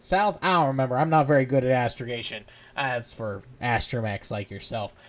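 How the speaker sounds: rambling mechanic droid, lightly voiced; loud, muddled pit droid chatter; chatty pit droid.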